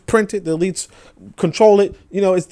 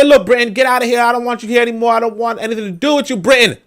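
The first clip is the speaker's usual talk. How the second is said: mock defiant colony; 4 semitones higher, faster than usual. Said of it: "You say".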